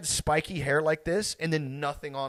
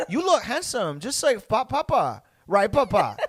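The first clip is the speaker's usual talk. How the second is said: high, loud singsong lady voice; haircut lady; 7 semitones higher, 5 dB louder than usual. Retold or imitated. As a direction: imitate a doting hairdresser cooing over a kid. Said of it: "she's like".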